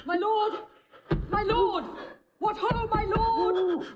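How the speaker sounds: calling out. Acted. Emilia calling from outside door.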